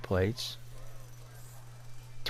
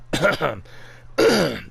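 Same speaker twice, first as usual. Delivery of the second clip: fake coughing fit; 4 dB louder than usual. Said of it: "I'm choking on these".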